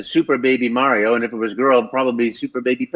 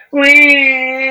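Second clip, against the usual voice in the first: high, loud gleeful Mario squeal; 10 semitones higher, 5 dB louder than usual. Retold or imitated. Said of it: "I go like".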